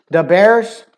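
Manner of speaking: "The Bears" as "Da Bears", loud and high; hard-r Chicago "The Bears"; Chicago accent. Shown as a demonstration. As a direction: punch "The Bears" like a Chicago fan. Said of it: "As to where in New York".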